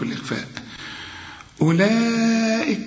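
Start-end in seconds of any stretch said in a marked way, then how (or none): 1.6-2.8 أولئك slow and higher, the waw silent. Shown as a demonstration. Teacher to student: أولئك with the waw silent. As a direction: drop the waw, stretch the vowel. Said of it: "الواو دي عليها خمسة".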